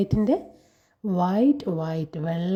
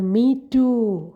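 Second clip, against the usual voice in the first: car answering; 3 semitones higher, 4 dB louder than usual. Acted. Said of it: "car എന്താ പറയുന്നത്?".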